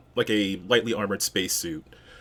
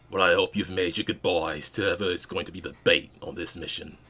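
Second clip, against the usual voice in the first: timbre shifted, grizzled veteran; lightly voiced scarred veteran; gruff old spacer; faster than usual. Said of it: "he will say".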